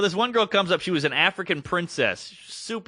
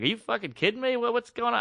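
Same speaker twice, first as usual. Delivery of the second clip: incredulous; 7 semitones higher than usual. Retold or imitated. Retold reaction to being fired.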